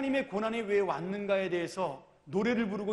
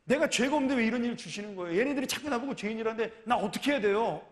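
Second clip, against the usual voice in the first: pleading protest. Retold or imitated. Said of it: "하나님한테 막 항변하는 거죠".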